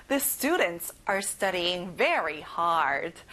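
slow word by word, stress on "very"; very slow model sentence. Shown as a demonstration. Teacher reads the sentence very slowly for children. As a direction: read it out slowly, lean on very. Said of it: "같이 따라해볼까요".

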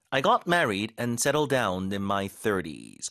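very slow, clear example sentence; slow model sentence. Shown as a demonstration. Teacher reading an example sentence slowly. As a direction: read it slowly for learners. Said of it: "안정된 생활을 시작하다라는 얘기인데".

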